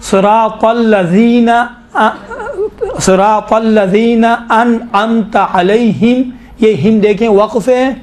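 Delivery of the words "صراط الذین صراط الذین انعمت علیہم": measured teaching recitation with long vowels; slow Quranic recitation. Shown as a demonstration. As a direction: recite slowly and carefully for learners. Models the recitation for students.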